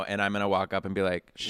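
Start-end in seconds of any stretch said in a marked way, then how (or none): 1.4-1.5 unvoiced-style whispered shush; hushed warning. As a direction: whisper it like a forbidden subject. Acting old self shushing about Bruno.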